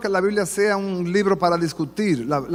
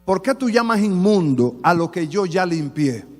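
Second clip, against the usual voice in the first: displeased Lord. Retold or imitated. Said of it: "como que no le gustó la tercera vez".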